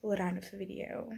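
hushed bedtime vlog whisper. Real, not acted. Vlogger in bed updating viewers late, whispering. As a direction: keep it to a soft whisper. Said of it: "so I'm whispering".

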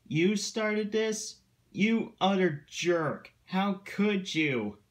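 high-pitched indignant outburst; outraged. A narrator's reading. Engines turn on Duncan over his prank, outraged.

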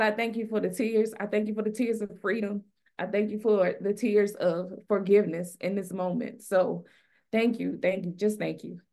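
tearful thanks. Real, not acted. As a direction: thank them through real tears. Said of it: "I told myself I was not gonna cry today".

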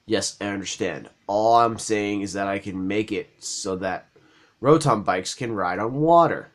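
low, soft-spoken game character; quiet NPC voice. Acted. Lightly voiced NPC explaining bikes to the player, soft and low.

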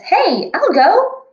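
high, slow cartoon cat; Cat in the Hat voice. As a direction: play a goofy high-pitched cat. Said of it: "The Cat in the Hat says".

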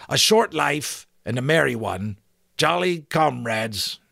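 loud hearty giant, unsure; fumbling giant. A narrator's reading. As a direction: stumble through the password.

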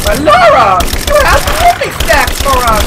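high, loud whiny begging voice; mock wolf voice. Gamer voicing the wolves begging Lara, high whine. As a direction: play the greedy wolves pleading.

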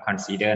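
consider said slowly as "khon-si-der", the first syllable "khon" clearly aspirated; correct pronunciation. Shown as a demonstration. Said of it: "อ่านว่า consider นะครับ". (ออกเสียง consider ช้าๆ ชัดๆ ว่า "คอน-ซิ-เดอร์")

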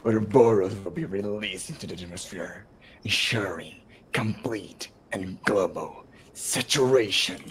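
softly voiced villain, slowing at the end; Wesker impression. Voicing a villain's plan for players, soft villain voice. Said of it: "give voice to Wesker".

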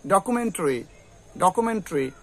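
ডকুমেন্টারি as "do-ku-men-tri"; light reduced ending on ডকুমেন্টারি; no "ta" in ডকুমেন্টারি, just "tri"; correct variant. Shown as a demonstration. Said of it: "এরকম করেও কিন্তু উচ্চারণটা হবে".

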